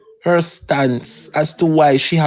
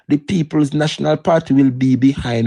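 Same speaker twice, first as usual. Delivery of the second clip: ordinary delivery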